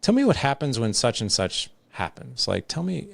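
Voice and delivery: high, rising curious ask; a sincere, interested parent asking. Shown as a demonstration. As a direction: gently invite them to open up. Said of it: "I do it in that voice tone of curiosity".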